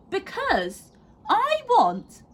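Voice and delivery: high then slowing, drawn-out plea for peace; weary mum. A narrator's reading. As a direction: stretch it out like a fed-up mother. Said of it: "said Missus Large".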